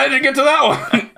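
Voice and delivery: high, fast disbelieving question; high incredulous squeak. Pretend. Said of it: "And it's like".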